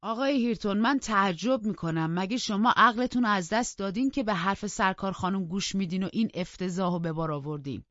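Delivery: loud, indignant reproach; a loud, shocked rebuke to a young man; angry scolding. Acted. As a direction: tell him off sharply and loudly. Servant scolds Hareton angrily.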